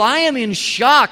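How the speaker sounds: high, loud, slow shock; shocked Paul. Retold or imitated. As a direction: sound stunned. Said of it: "writing these words in absolute shock".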